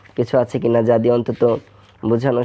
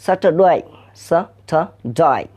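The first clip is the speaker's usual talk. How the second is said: Australian accent; 3 semitones higher than usual. Shown as a demonstration. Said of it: "ওরা বলছে".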